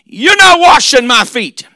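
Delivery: chanted, shouted preaching cadence; fiery preaching. Acted. Preacher roaring Peter's refusal to the congregation. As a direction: ride the rhythm of the sermon. Preaching at full force, sing-song.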